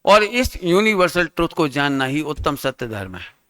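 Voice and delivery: measured, slow, softened emphasis; slow and deliberate. Real, not acted. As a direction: say it slowly with pauses so it sinks in. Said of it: "धीरे से रुक के बोल रहा हूं".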